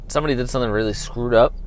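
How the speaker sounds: usual speaking voice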